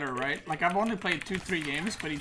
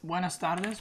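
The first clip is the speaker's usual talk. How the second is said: bright rising Spanish greeting with accent. Shown as a demonstration. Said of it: "You like that Spanish accent?".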